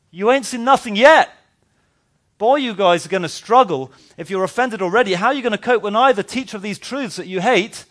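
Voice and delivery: high, loud, taunting delivery; bold challenge. Pretend. Preacher voices Jesus taunting offended disciples, high and loud. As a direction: dial it up and dare them.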